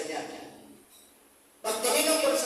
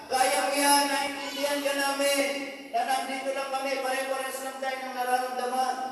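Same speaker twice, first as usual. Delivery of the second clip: comforting; 6 semitones higher than usual. Acted. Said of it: "Kinukomport nila".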